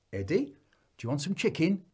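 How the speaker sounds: coaxing parent. Acted. Parent offering picnic food to little Eddie, coaxing. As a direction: offer food to a small child.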